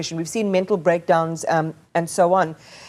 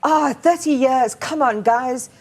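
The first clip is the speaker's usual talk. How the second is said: mock impatient, dismissive, a bit higher; imitating a weary skeptic who wants everyone to move on; 4 semitones higher than usual. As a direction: voice the tired public brushing the wounds off. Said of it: "a fatigue and a dismissiveness".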